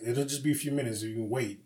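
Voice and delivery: mildly placating, softening at the end; retold politeness. Manager explaining the wait to a customer, mildly polite. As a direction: lightly imitate a polite explanation. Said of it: "he's polite".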